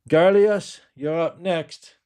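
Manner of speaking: high, loud call of his name; receptionist calling. Retold or imitated. Mimicking the doctor's secretary calling him, high and bright. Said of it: "impersonating receptionist calling him".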